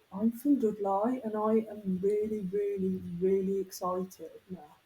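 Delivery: slow Dudley, Black Country accent. Shown as a demonstration. Having another go for the friends, slow Black Country accent. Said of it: "it's Black Country".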